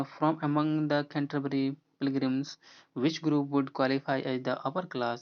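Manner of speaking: each English word read out slowly and evenly; slow question reading. Shown as a demonstration. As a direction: dictate the question to the class. Reads exam question slowly.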